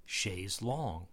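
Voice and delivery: "chaise longue" said slowly as shayz long; common English pronunciation. Shown as a demonstration. Giving what most people say, English pronunciation. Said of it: "most people say chaise longue".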